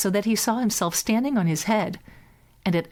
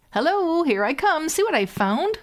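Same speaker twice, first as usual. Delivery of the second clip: calling out; 9 semitones higher than usual. A narrator's reading. Hans shows his brothers the shoe, calling out. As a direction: hail them again, gleeful.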